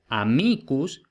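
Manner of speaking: "amicus" with the accent on the I; stress on the I. Shown as a demonstration. Latin teacher showing where amicus takes its accent, stress on the I. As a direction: lean on the middle I of "amicus". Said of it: "tiene el acento en la I".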